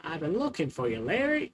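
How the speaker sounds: sing-song, rising high on Larry; playful calling out. Pretend. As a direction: tease it, swooping up at the end.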